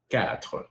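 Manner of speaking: "Quatre" with a guttural final R; throaty French R. Shown as a demonstration. Teaching four in French, throaty R. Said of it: "like Arabic, Dutch, German".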